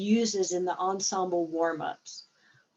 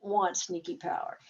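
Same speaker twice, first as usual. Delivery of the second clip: whisper; 3 semitones lower, 6 dB quieter than usual. Acted. Conspiratorial aside about sneaky power.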